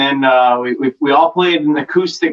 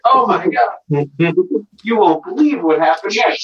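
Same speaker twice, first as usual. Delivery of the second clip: tabloid tv host. Pretend. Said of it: "Just put some big clickbait".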